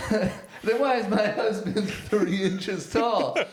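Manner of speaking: high, slow voice breaking into laughter; painting character voice. Acted. Podcaster voices a wife quizzing shrunken men, painting character voice. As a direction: put on a high voice, laughing through it. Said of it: "And they're like".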